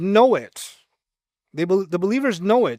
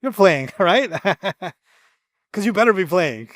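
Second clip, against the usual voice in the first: mock threat. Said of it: "They said".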